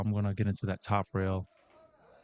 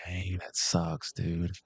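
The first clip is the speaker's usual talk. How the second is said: commiserating; 4 semitones lower, much slower than usual. Real, not acted. Bad scratch for the player.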